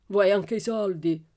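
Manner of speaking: loud, slow, snarling question; growled. A narrator's reading. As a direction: growl it with menacing disbelief. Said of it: "ringhiò Laban". (ringhio minaccioso)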